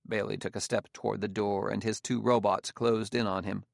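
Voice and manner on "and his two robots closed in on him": usual speaking voice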